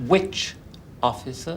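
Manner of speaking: sharp demand. Acted. Complainant presses the constable.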